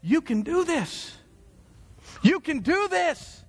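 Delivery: high, slow insistent encouragement; coach yelling. Retold or imitated. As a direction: call it out high and slow to a hurt athlete. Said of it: "all he can muster in that moment is".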